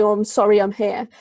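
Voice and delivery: mock apology. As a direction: apologise with mocking insincerity. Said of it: "being very mocking and saying".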